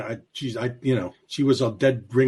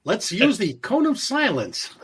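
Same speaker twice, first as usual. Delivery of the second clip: higher, deliberate agent voice; put-on spy comedy hero, slow and raised; sitcom secret agent; 6 semitones higher than usual. Riffing on Get Smart, agent to his chief, put-on voice. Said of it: "was Get Smart".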